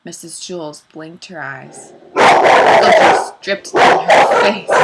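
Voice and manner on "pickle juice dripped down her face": laughing while reading. Real, not acted. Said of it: "Sorry, guys".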